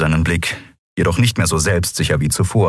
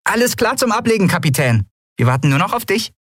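high, quick mock-military chirp; mock salute report; faster than usual. A narrator's reading. Nelen mock-reporting to the captain, high and playful. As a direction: play at being a soldier. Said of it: "parodierte einen Salut".

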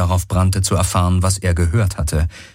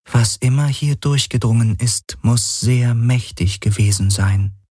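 raised, detached AI voice; higher, otherworldly voice of a calm machine; the Helix, a machine mind; 4 semitones higher than usual. Acted.

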